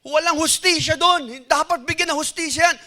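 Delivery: high, loud indignant outcry; the angry king demands justice, high and loud; burning anger. Acted. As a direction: cry out against the injustice like an outraged king. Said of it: "He was burning with anger".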